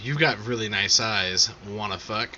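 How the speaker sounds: pervy voice. Retold or imitated. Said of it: "That's what I say to women when I wanna be pervy".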